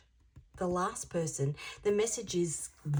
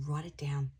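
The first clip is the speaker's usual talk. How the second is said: urgent whisper to the viewer; 2 semitones lower than usual. Real, not acted. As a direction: whisper it like a secret instruction. Urging viewer to note messages.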